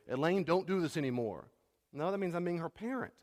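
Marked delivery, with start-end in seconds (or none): 0.1-1.5 bossy order. Retold or imitated. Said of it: "A boundary is not when I say".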